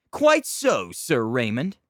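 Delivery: mock aristocrat; haughty noble. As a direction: sniff like a snob. Nobles banter in character.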